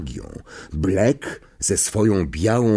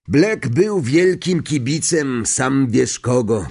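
higher, slow, savoured words; gossiping conductor; 5 semitones higher, 4 dB louder, slower than usual. Acted. Stan tells Harry about Black's allegiance, gossiping conductor. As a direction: let out juicy gossip slowly, in character.

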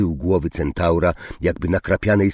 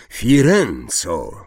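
a slow, booming call of the name; thundering call; 2 semitones higher, 4 dB louder, much slower than usual. Acted. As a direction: boom the name out slowly and louder. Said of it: "zagrzmiał Zakała". (grzmiący, powolny okrzyk imienia)

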